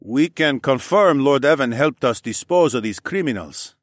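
lightly voiced man vouching for a friend; earnest Mel. Mel speaks up to the council.

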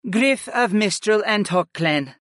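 gracious greeting; formal mother voice. Acted. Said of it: "the chief's wife addressed me".

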